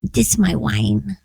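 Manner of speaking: lightly voiced toddler, slow; a hint of a little girl sipping; baby voice. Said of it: "in her little baby voice".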